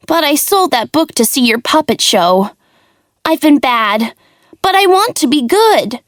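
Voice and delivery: put-on high, pleading little puppet boy; childlike puppet voice. Pinocchio apologises to his father, high pleading child voice.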